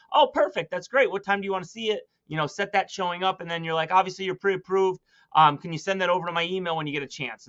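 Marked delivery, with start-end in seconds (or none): 0.1-2.1 breezy nonchalant. Shown as a demonstration. 3.9-7.5 offhand, assuming ask; casual nonchalant. Shown as a demonstration. Agent to buyer on phone, breezy and offhand.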